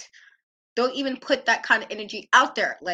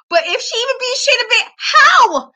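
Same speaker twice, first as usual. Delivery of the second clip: disbelief; 10 semitones higher, 6 dB louder than usual. Real, not acted. Outraged disbelief at wrestler result.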